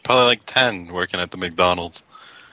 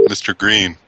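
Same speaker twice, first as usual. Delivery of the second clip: put-on voice. Put-on voice, prank call.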